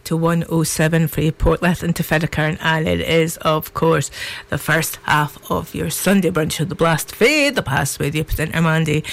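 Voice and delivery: hoarse, croaky voice from a sore throat; rough croaky throat, pushing through. Real, not acted. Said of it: "with a very croaky voice".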